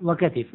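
وكتف said "wa-ka-tif", i after the t; two-syllable katif in وكتف; katif form. Shown as a demonstration. Teacher completes the three variants, pronounced katif. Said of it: "إذن ثلاث لغات".

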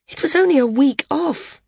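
high-pitched protest. A narrator's reading. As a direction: protest with the voice jumping up. Protesting against the older woman's verdict.

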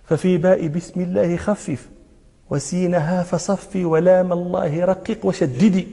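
slow, low recitation of verse; didactic verse recital. Shown as a demonstration. Teacher reciting the rule on Bismillah, slow low recital. Recites lines of a tajweed poem.

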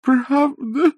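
high, eager rising question; old man clinging to Bender, hoping; hopeful old man. A narrator's reading. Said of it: "спросил хозяин домика".

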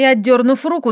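plain reading voice

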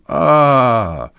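put-on old man backs out wailing; terrified wail. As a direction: howl in theatrical horror. Old man flees his dream.

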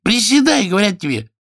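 high nasal-voiced petty king; whiny king. Narrator voicing the king demanding of the healer, high petty king.

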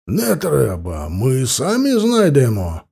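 slow, eager Cossack refusal; lightly voiced Cossack waving off the offer; a hint of a Cossack exclaiming. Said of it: "воскликнул казак".

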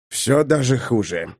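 quiet, slow and calm. Acted. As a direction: say it calmly, resigned. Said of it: "как-то спокойно произнёс".

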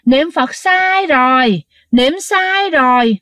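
slow, drawn-out teasing ghost voices; slow mocking ghost chant; ghostly chorus taunt. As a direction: chant it slowly like mocking spirits. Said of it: "nói đồng thanh lắm nha".

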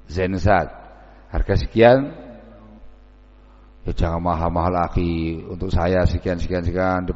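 haggling. Acted. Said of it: "preteli betul sama Ustaz".

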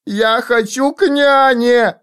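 put-on high, drawn-out child wail; shrieking child. A narrator's reading. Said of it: "Дитя вскрикивало и тряслось".

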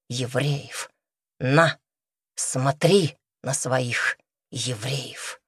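low, slow harsh robber voice; grim robber. A narrator's reading. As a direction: push the words at her, heavy and dark. Robber shoves girl at corpses.

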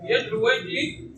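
slow "يدعو ويجري" with long final vowels; drawn-out endings. Shown as a demonstration. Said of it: "هنا نقول الثقل".

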